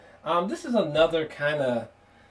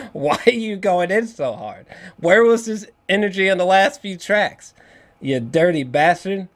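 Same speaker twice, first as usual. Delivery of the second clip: hyped disbelief; 4 semitones higher, 6 dB louder than usual. Real, not acted. Hyped reaction to a verse.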